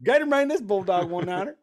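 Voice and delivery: trucker radio call. Retold or imitated. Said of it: "pulling down his mic on his big rig".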